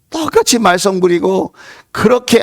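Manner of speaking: ordinary talk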